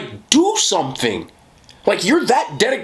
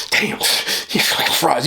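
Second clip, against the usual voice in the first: mock hater; slower than usual. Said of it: "you be like".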